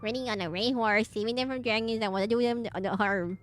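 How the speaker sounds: lightly goofy mocking villainess; a hint of a goofy villainess mocking Kyle. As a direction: tease the hero in a goofy put-on voice. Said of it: "I give her this goofy voice".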